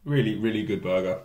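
talking between licks; chewing, licking fingers. Real, not acted. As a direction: fingers at the lips. Seen 1: Fingers at lips, after burger bites; later brings pickle to mouth.

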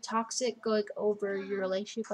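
talking through a yawn. Real, not acted. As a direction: yawn while speaking. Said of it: "I'm yawning".

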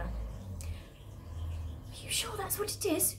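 slow, hushed whisper; soft, drawn-out anxious whisper; frightened whisper. Acted. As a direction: whisper it slowly, barely voiced. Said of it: "she whispered".

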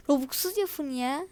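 breathy giggling whisper; half-laughed whispered plea; laughing whisper. Real, not acted. Kid mocking Robux demand, whisper.

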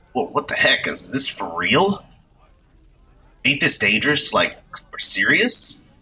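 lightly voiced gawking street kid; delinquent youth. Delinquent gawking at a burning van, slangy teen voice.

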